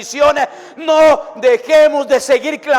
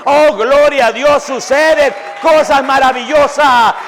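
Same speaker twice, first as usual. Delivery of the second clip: fiery preaching. Acted. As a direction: preach it out to the congregation. Preaching at full force.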